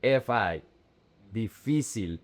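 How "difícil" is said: Difícil stressed on "fí", last syllable falling away; stress on middle syllable. Shown as a demonstration. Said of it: "The emphasis is in".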